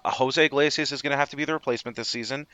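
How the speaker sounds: talking with hiccups; hiccuping between words. Real, not acted. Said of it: "sorry, I got the hiccups for some reason".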